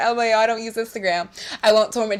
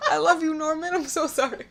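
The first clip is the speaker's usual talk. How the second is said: normal talking voice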